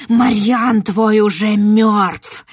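loud, slow shriek. Acted. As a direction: screech the news at the girl. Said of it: "верещала ведьма".

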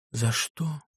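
soft, gentle question; a doctor's soft, gentle query; gently asked. A narrator's reading. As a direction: ask it softly and kindly. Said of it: "спросил мягко".

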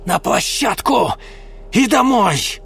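woman commanding; sharp orders. Acted. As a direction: hurry the men.

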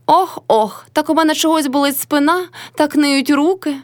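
high, tiny whine imitating mother-in-law; thin mocking voice. A narrator's reading. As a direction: mimic her aches in a thin, high voice. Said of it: "почала Мотря тонесеньким голосом, передражнюючи свекруху".

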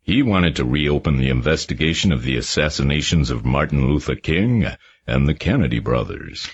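put-on mild reluctance in a Harvard accent; a wary witness telling the detectives reluctantly. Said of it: "he went on reluctantly".

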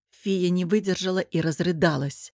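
plain reading voice

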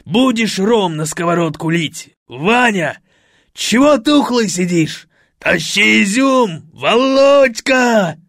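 loud booming orders; rally everyone wildly; manic party host. A narrator's reading. Fred bosses everyone loudly.

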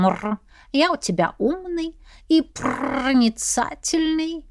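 slow, smug cat voice with a purr; slow, self-satisfied cat boast. Acted. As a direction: purr it, pleased with himself.

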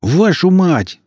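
high furious yell. A narrator's reading. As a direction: bellow it out in rage. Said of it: "заорал Жорик".

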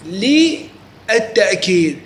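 للتأكيد stretched very slowly; teacher lingering on the key term; drawn out. Shown as a demonstration. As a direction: lean on للتأكيد and draw it out. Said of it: "لذلك نقول هنا كاف".

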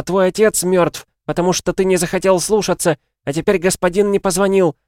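high, loud, ranting mother; yelling. A narrator's reading. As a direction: hurl accusations at the son at full pitch. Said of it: "заорала его мать". (истошно орёт на сына)

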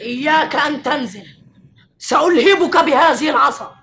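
taunting threat. Acted. Cain taunts brother with stick.

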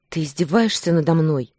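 ordinary delivery

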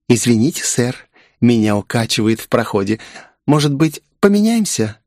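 lightly voiced shy young woman; shy girl. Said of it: "застенчиво произнесла она".

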